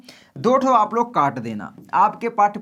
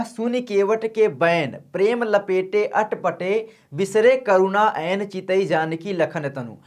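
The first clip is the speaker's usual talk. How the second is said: slow, measured verse reading; poem recitation; slower than usual. Shown as a demonstration. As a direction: chant the couplet out line by line, unhurried. Recites doha slowly.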